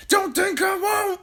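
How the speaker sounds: high, slow, loud hag threat; Grandma threatening. A narrator's reading. Grandma warning the family, loud high hag voice. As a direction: snarl it like a menacing old witch. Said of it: "Grandma said".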